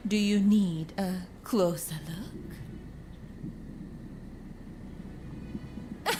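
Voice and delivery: breathy tease, leaning in close; teasing whisper. Acted. Courtesan teasing her rescuer, whispering close. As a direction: whisper it like a flirt daring him closer.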